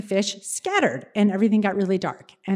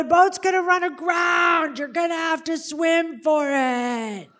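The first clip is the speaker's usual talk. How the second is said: slow, higher shout from the boat; retold shout; 7 semitones higher, slower than usual. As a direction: call it out over the storm, slowly. Dad calls out from boat.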